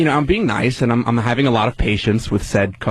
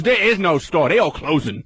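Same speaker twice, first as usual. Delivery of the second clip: higher-pitched mock rep; imitating dismissive rep; 4 semitones higher than usual. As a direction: play the clerk who doesn't care about the store. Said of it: "She goes".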